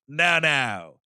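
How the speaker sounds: slow, drawn-out creepy command; unhinged captain. Retold or imitated. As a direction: act like a captain gone mad, stretching each word. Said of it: "goes nuts".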